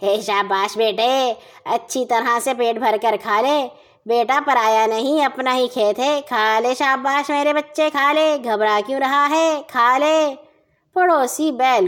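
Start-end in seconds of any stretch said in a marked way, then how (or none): 0.0-10.3 gently coaxing, sweet-talking a pet. Acted. Neighbor sweet-talking his bull in the field, coaxing. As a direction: coax the bull like a doting parent. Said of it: "میٹھی میٹھی بولیاں بول رہا ہے".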